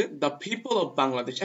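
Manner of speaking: very slow, word by word; slow example read. Shown as a demonstration. Teacher reading the example sentence to students, very slowly. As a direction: spell the example out slowly for learners. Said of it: "কি বলতেছে?".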